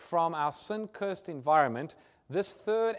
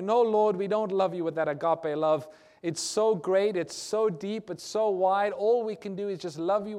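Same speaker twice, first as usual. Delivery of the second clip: louder, fervent admission; earnest confession; 2 semitones higher, 5 dB louder than usual. Acted. Believers answering the Lord with fervent, louder confession. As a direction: pour it out like a heartfelt prayer.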